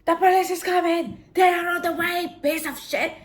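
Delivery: loud high fake police call; shouting at the attacker. Woman bluffing to her attacker, shouting loudly. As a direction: yell it out to scare him off. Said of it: "to act as if I'm talking to the police".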